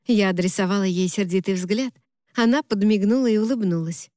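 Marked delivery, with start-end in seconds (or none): none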